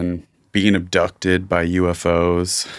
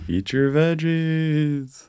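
nagging parent voice; 9 semitones higher, much slower than usual. Pretend. Mock parent scolding about veggies.

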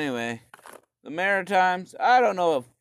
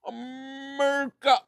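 high, loud, hammed-up visionary shouting his plans; a madman bellowing his railroad dream, much higher; mock grandiose madman; 13 semitones higher, 5 dB louder than usual. Mocking Canada's railroad builder, high hammed-up shout. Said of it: "one madman just being like".

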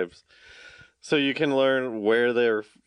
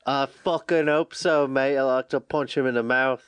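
put-on British accent. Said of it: "we just did every dialect".

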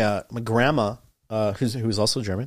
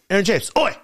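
grandma calling out; 9 semitones higher, faster than usual. Retold or imitated. Grandma calling his name.

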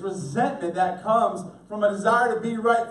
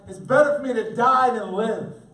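loud, higher angry outburst; exasperated, raised voice; mad, ticked off; 4 semitones higher, 6 dB louder than usual. Shown as a demonstration. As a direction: act out a fed-up, hurting prophet. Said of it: "Jonah's mad, he's tired, he's hurting, he's ticked off".

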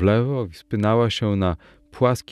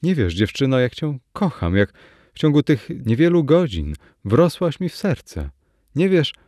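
ardent plea in a higher pitch; narrated lover's entreaty, pitched up; pleading; 6 semitones higher than usual. A narrator's reading. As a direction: plead earnestly, voice lifting on each phrase. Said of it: "prosił Arnold".

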